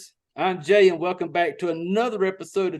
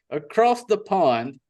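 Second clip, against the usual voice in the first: slow deliberate phrase; slower than usual. Shown as a demonstration. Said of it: "I'm gonna steal it from him and say".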